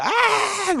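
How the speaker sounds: high sustained "ah" cry; acted scream. Host acting out toys frozen at night, high cry. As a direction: let out a high mock scream. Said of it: "Nakagano'n lang sila".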